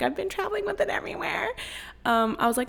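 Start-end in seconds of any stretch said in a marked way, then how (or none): 0.0-1.5 airy high whisper, overly polite; whispered customer service voice. Retold or imitated. Podcaster whispering sweetly to the gate agent in customer service voice. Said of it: "in my little hoe customer service voice".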